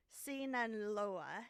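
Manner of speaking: slow, questioning attempt at SINALOA; tentative SINALOA, ending like a question; unsure. Real, not acted. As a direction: sound out SINALOA haltingly, rising at the end. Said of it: "just say it confidently".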